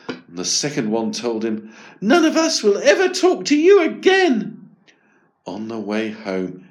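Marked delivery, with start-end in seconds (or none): 2.0-4.7 very high, loud cold vow; scornful gazelle. Acted. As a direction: cut him off.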